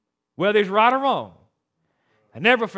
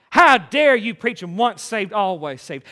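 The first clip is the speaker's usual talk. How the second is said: angry caller; 4 dB louder than usual. Retold or imitated.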